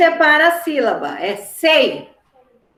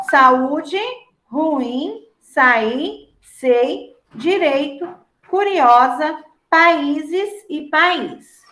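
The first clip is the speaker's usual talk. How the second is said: slow listing; much slower than usual. Shown as a demonstration. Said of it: "palavras destacadas".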